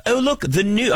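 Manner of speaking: put-on British accent. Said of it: "I'm just gonna do a British accent".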